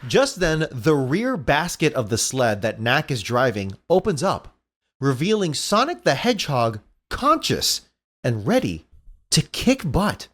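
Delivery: measured comic-book narration with dramatic beats; lightly dramatic script reading; story narration. A narrator's reading. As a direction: narrate the big reveal, pausing before the punch.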